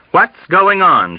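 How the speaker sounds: high, drawn-out demand; demanding question. A narrator's reading. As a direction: demand to know what is happening. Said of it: "she demanded".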